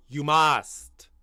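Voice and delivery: "must" drawn out and pushed; stress on MUST. Shown as a demonstration. Streamer lecturing rival Arsenal fans, stress on "must". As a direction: lean hard on the word "must". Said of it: "Emphasis on the".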